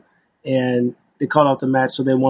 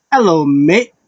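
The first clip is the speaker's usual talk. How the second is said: put-on light British accent greeting; chirpy British hello, lightly done; mock British greeting; 3 semitones higher, 4 dB louder than usual. Tyler Bate greeting the crowd, light British accent.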